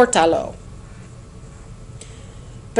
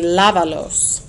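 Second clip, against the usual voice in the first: "lávalos" stressed on the first syllable, LA; "lávalos" as LA-va-los, falling after the first A; 2 semitones lower, slower than usual. Shown as a demonstration. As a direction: punch the LA of "lávalos", let the rest fall. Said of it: "I stressed that first A".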